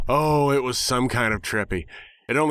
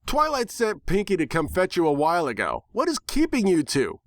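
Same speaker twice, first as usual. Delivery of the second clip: much higher, impatient pony voice; scolding tomboy pony; 8 semitones higher than usual. Acted. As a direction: demand an answer like a brash cartoon pony. Rainbow Dash scolding in character.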